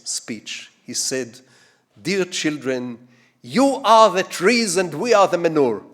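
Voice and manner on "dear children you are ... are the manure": put-on Russian accent. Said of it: "and in a heavy Russian accent".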